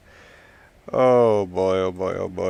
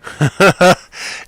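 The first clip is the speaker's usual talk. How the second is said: laughing; 5 semitones higher, 3 dB louder than usual. Real, not acted. Laughs at his own idea.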